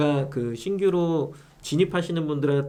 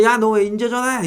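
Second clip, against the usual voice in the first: imitating a rude buyer, pitched up and louder; mock angry scolding; angry customer yelling; 7 semitones higher, 4 dB louder than usual. Seller retelling the buyer's phone rant, mock angry. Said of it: "진짜 말도 안 되게 저한테 화를 내시는 거예요".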